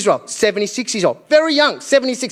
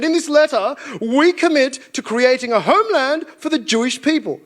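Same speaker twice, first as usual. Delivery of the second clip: higher, formal letter-reading voice; lightly mock a British government declaration; put-on official proclamation; 5 semitones higher than usual. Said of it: "And they said".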